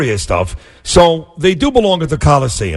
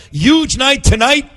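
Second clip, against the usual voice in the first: higher, slow and beaming; excited greeting; 7 semitones higher than usual. Real, not acted. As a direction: greet him like a big night. Host greets congressman on playoff night.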